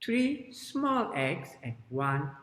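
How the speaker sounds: slow, deliberate counting storyteller; children's story narration. Shown as a demonstration. Teacher opens the tale of Miss Hen, slow storytelling. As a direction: tell it slowly for small children.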